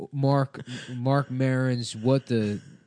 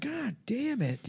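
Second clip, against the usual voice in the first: much higher, softer, slow mock curse; disappointed dad; 11 semitones higher, 10 dB quieter, slower than usual. Host voices dad after son won't drop in. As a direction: mutter it like a let-down father. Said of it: "He's like".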